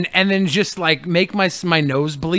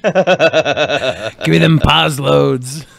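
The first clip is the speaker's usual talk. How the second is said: laughing; 3 semitones lower, much slower than usual. Pretend. Joking, laughing.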